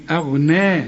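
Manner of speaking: أغنى with a light hamza and a heavy, full غ; thin the hamza, thicken the ghain in أغنى; correct recitation. Shown as a demonstration. Teacher models correct أغنى for the student. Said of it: "حرقق الهمزة وفخم الغين".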